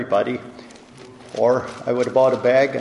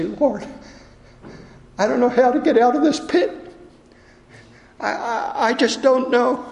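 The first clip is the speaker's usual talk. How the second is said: desperate prayer; 11 semitones higher than usual. Shown as a demonstration. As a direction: pray it like you're stuck in a pit. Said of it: "and say".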